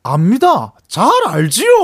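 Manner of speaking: Jo Junhyun impression. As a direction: voice placed at the back of the throat. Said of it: "아까 그 성대모사 하신 거 한 번만".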